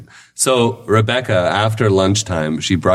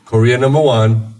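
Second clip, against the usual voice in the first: higher-pitched, insistent mock proclamation; insistent Korean driver; 4 semitones higher than usual. Driver corrects the Canadian, insistent and higher-pitched. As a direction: imitate a driver firmly ranking countries. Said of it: "the guy was like".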